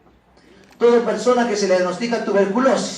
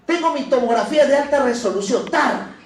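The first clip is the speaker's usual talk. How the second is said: higher, louder eager patient voice; imagined patient; 4 semitones higher, 4 dB louder than usual. Pretend. Teacher voicing a patient proudly presenting a test, eager and raised. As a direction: play the patient showing off his test.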